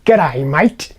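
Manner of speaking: imitated local "G'day, mate" accent, no Indian lilt; unexpected local accent. Indian man in the workshop greeting the newcomer, local accent. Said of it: "But no, he says".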